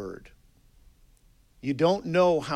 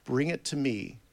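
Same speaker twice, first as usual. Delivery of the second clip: gentle divine reply; 2 semitones lower, 4 dB quieter than usual. Retold or imitated. God answering a struggling believer in prayer, gentle and hushed. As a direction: quietly invite them to hand it over.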